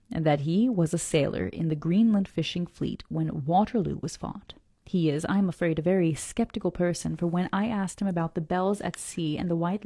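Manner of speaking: measured, deliberate reading aloud; story narration. A narrator's reading. Reader reads the harbor description to listeners, story narration. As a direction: read it out carefully, phrase by phrase.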